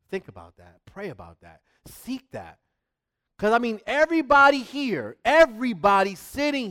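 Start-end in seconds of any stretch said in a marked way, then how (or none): 0.1-2.6 quiet reflective. Real, not acted.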